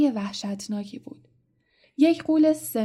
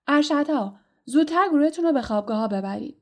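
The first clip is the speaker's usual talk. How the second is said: sharp raised command, rushed; angry order; 4 semitones higher, 4 dB louder, faster than usual. Acted. Headmaster angrily ordering prefects to the dormitories, fast loud command. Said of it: "سپس با خشم گفت".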